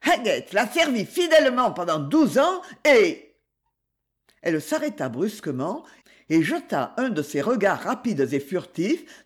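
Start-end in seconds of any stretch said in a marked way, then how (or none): 0.0-3.3 high, loud heated defence; heated outburst. Acted. Wife defending her husband, high and loud. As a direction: rush on in anger, then stop short.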